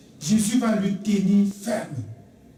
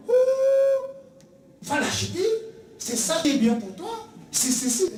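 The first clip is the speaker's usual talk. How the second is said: tempting whisperer; 10 semitones higher, slower than usual. Acted. Voicing Satan tempting believer.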